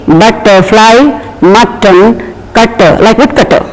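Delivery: "butterfly, mutton, cutter, woodcutter" with stressed double T; wrong doubled T. Shown as a demonstration. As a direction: lean hard on the TT in each word. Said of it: "which is wrong".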